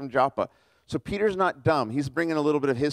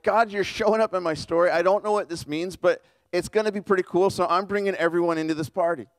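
eager, a touch higher and brighter in pitch; excited; 3 semitones higher than usual. Retold or imitated. Cornelius welcoming God into his story, mildly excited. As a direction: gush like a thrilled host. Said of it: "Cornelius is kind of excited".

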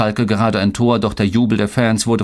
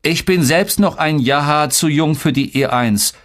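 put-on defensive boy's comeback, higher; higher-pitched retort; countering; 7 semitones higher than usual. A narrator's reading. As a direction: hit back at your teasing brother. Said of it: "konterte ich".

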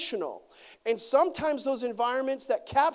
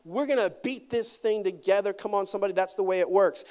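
encouraging wife; 3 semitones higher than usual. Retold or imitated. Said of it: "You might say".

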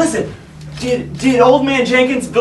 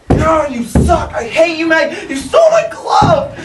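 sputtering foiled villain; 4 semitones higher than usual. Acted. Foiled rival rants at Matt.

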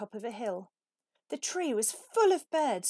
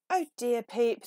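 sighing; 3 semitones higher, 4 dB louder than usual. Acted. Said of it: "the conductor sighed".

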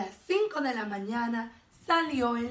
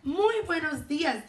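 friendly greeting; 5 semitones higher, 3 dB louder than usual. A narrator's reading. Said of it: "dijo la mariquita simpática".

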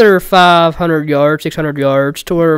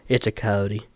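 low, much softer, deflated quote; retold crushing letdown; 6 semitones lower, 11 dB quieter, slower than usual. Cameraman retelling the bad news he heard, low and deflated. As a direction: drop it quietly, hope gone. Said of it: "you don't understand how heartbroken I was".

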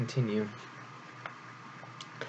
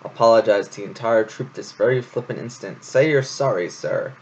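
a hint of a stern hare commander; lightly stern, scolding the infant. Hare scolds the babe to apologize, lightly stern. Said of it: "Florian interrupted sternly".

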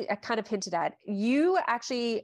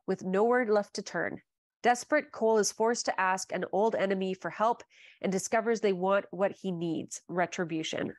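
dramatic blurb read. Acted. Reads the book blurb aloud.

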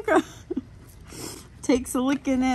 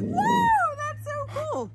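surprised; 12 semitones higher, slower than usual. Retold or imitated. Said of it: "I'm like".

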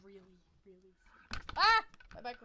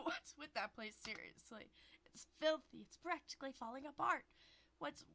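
put-on a higher, louder scolding girlfriend voice; voiced girlfriend; 4 semitones higher, 4 dB louder than usual. Girlfriend complains about the filthy apartment, scolding.

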